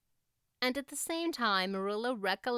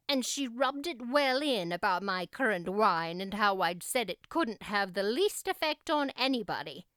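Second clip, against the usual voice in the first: indignant Marilla. Acted.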